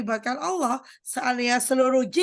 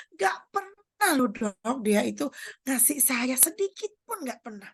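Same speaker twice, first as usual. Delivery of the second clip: slow, teary, whining grievance; whiny complaint. Retold or imitated. Congregant whining to the doctor about ungrateful people, teary. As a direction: imitate a hurt, complaining woman.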